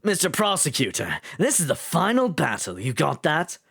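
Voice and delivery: put-on, not very good British accent; deliberately dodgy British character voice. Shown as a demonstration. Streamer finding a character's voice from a British start, mock British accent. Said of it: "I make him British".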